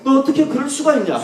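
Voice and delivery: a hurt teacher demanding why Peter denied him; imagined rebuke. Retold or imitated. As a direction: reproach him like a betrayed friend. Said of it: "이렇게 책망할 수 있잖아요".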